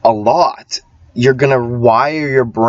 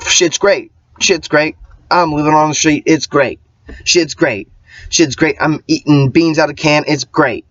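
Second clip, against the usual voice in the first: higher, chirpy fake-happy repeating; mock cheerful; 4 semitones higher than usual. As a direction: sell it like everything is fine while it clearly isn't. Mock-happy homeless ramble.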